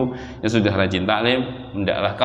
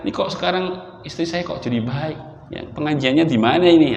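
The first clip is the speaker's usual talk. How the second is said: higher-pitched, mildly amazed questioning; puzzled husband; 3 semitones higher than usual. Acted. Husband wondering where his wife studies, mildly puzzled. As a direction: lightly voice a husband marvelling at a change. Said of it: "Suaminya heran".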